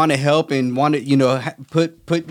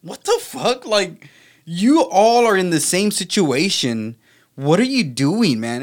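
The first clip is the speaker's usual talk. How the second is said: retold disbelief; 4 semitones higher, slower than usual. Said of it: "And I'm like".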